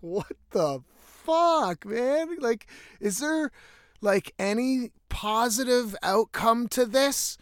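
high-pitched, exasperated mock cry; retold exasperation. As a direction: wail it in disbelief, voice jumping up high. Retold exasperation over soaked boot.

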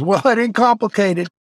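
imitating the SEAL instructor's voice; gruff old instructor. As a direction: bark it like a wounded old Vietnam vet instructor. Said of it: "And he talked like this".

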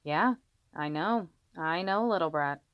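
slow, gentle murmur; soothing a baby. Acted. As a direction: hush a crying baby tenderly. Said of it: "continued to talk to the crying baby".

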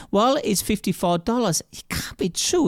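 high-pitched shocked disbelief at the fine; freaking out. Retold or imitated. Respondent hearing about the parking fine, high shocked disbelief. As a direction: squeak out the shock of a surprise bill. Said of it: "And they really would freak out".

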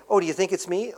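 light, wondering "Oh, do you think it's me?"; questioning. Shown as a demonstration. Preacher showing the wrong reading as a mild question. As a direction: toss it off as an unsure question. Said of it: "not a questioning".

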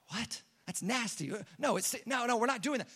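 hushed, stammering objection; mock appalled refusal. Mourner objecting to Pastor Jerry at funeral, mock appalled refusal. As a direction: object under your breath, acting taken aback. Mourner balking at opening casket.

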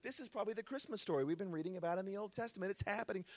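a hint of a naive shepherd; mock calm shepherds. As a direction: play the shepherds as unbothered. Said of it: "the shepherds then go".

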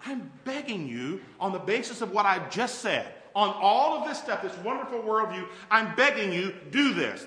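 earnest rising plea to the church; Paul pleading. Retold or imitated. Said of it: "He says".

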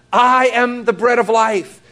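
imitated public cry, moderately strong. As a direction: proclaim it to a crowd. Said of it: "Jesus cried out and said".

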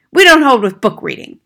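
loud, high-pitched dismissal; scornful father. Acted. Father to teacher about book reading, scornful. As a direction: dismiss it loudly.

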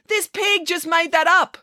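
high, slow, exasperated accusation; frustrated news director's outcry; mild acted yell. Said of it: "yelled the news director".

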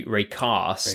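Raycast with a long broad a, southern English. Shown as a demonstration. British guest showing the southern pronunciation. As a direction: say Raycast like a south-coast Brit. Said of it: "I'm on the south coast".

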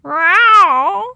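loud high yowling cat; a cat yowls suddenly from the ivy; cat howl. A narrator's reading. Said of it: "broken by a howl".

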